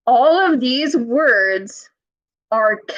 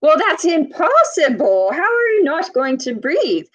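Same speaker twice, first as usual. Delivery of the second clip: mock disbelief; 5 semitones higher than usual.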